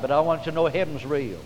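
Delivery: normal talking voice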